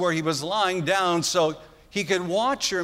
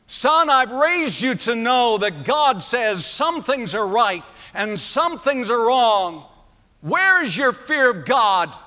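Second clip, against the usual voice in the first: louder preaching rebuke; hammed-up outrage; furious father; 2 semitones higher, 3 dB louder than usual. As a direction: thunder the questions at the son. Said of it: "I'm sure he was saying things like".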